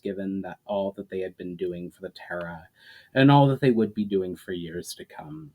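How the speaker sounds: measured, even storyteller reading; story narration. A narrator's reading. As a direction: read the chapter like an author sharing his book. Author reads his novel aloud.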